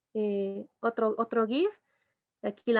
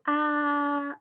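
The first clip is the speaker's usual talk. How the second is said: put-on baby coo; 4 semitones higher than usual. Shown as a demonstration. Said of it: "Entonces son como".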